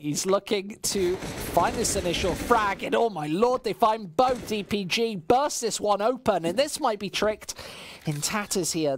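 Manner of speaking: esports caster call; live play-by-play. Acted. Caster calling the round for stream chat, live play-by-play. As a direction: narrate the round as it happens.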